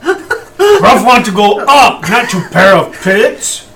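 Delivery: laughing caveman speech. Acted. Repeating misheard word, laughing.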